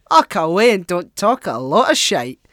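put-on loud gruff old Scottish man; mock heckle at a politician; quoting an old man. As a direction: bellow it like a fed-up old man. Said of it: "that's my favourite quote".

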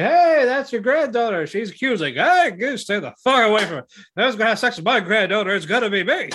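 high, fast, mock-indignant grandpa voice; squeaky old man. Grandpa warning the fisherman away from granddaughter, high and fast.

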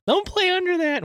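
high shrill mom imitation; mom warning voice. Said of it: "your mom doesn't want you".

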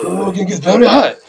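high, loud mock Asian accent; exaggerated Asian accent. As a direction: push a broad cartoonish Asian accent. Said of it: "grossly exaggerated Japanese accent".

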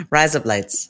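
broad Aussie vowels, matter-of-fact; Australian accent. Shown as a demonstration. Co-host repeating it for the puzzled host, Australian accent. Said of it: "giving us her, her, um, Australian accent".

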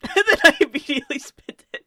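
loud, laughing mock repeat; teasing echo. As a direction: echo your friend's confession, cracking up loudly. Repeats friend's admission while laughing.

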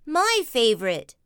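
put-on loud boy-cub whine; whining brother bear. Brother begging at the checkout, loud whine. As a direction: whine loudly, not as high as his sister. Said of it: "whined Brother".

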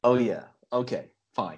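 low-pitched put-on American accent; resumed American accent. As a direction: drop deep into an American accent. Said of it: "I thought you were American".

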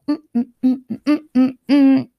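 contented rhythmic mm-ing while eating; happy food hums. Retold or imitated. Toddler happy dancing in the back seat, humming. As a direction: hum like the food is delicious. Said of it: "you're just like".

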